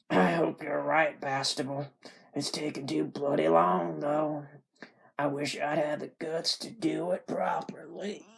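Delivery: put-on ailing Southerner, fading to whispery; dying Southern man. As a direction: start firm, fade like a dying man. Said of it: "like a dying Southern man".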